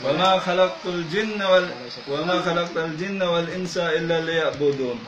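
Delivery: measured Arabic scripture recitation; Quran recitation. Real, not acted. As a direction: recite the verse as in a healing rite. Reciting a Quran verse in exorcism. (pagbigkas ng talata ng Quran)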